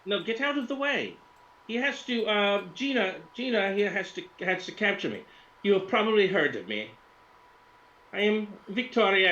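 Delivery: high, self-important Russian influencer; high-pitched Russian woman; Victoria Lapshina. Acted. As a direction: boss the crew in a high Russian accent. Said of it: "She's like".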